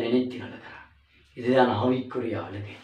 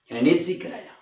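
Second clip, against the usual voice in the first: pleading repeat; 5 semitones higher than usual. Shown as a demonstration. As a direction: plead the question again. (கெஞ்சும் மறுகேள்வி)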